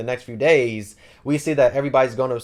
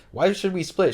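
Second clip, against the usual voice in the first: higher-pitched retold disbelief; puzzled comeback, pitched up; mock incredulous question; 7 semitones higher than usual. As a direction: question it as if baffled, lightly acted. Retold baffled reply to demand.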